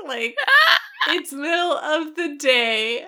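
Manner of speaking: high, loud laughing outburst; laughing shout. Retold or imitated. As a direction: shout it, cracking up. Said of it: "I'm like".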